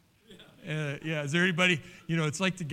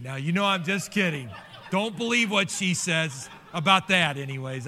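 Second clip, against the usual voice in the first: laughing tease; 4 semitones higher, 6 dB louder than usual. Real, not acted. Laughing, teasing the congregation.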